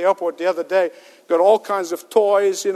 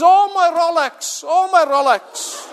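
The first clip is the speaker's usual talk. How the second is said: slow, high hammed-up lament, breaking into a laugh; milk the punchline with a drawn-out wail; mock wail; 7 semitones higher, slower than usual. Yuppie with a severed arm mourning only his watch, hammed-up wail. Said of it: "He says".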